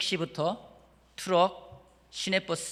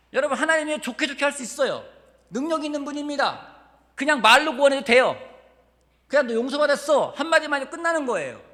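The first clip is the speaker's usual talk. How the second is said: much higher and louder, fervent preaching; full-force preaching; 11 semitones higher, 11 dB louder than usual. Acted. Pastor preaching to the congregation, high loud fervent. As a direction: drive it home to the congregation.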